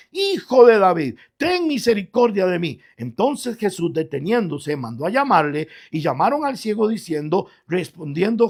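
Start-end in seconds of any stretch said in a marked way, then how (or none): 0.1-2.8 crying out. Acted. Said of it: "clamaba mucho más".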